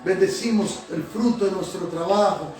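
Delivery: prayer with repeated Señor; fervent prayer. Acted. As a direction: pour it out to God, pleading, line after line. Pastor leads a fervent prayer.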